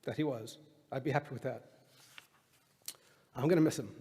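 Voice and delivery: soft, halting, real grief; quietly holding back tears at a eulogy; grieving. Real, not acted. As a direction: barely get it out, with long pauses. Son grieving at father's eulogy.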